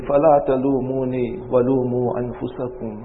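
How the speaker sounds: quick recited Arabic line; Quran recitation. Acted. Preacher quoting Shaitan's words from Quran, fast recitation. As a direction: recite it briskly.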